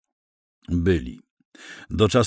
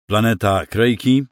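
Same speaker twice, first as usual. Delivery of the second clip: ordinary delivery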